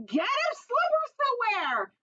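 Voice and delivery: put-on high little girl calling out; yell. Girl in the crowd yelling an idea, high. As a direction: pipe up eagerly from the crowd. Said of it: "A girl yelled".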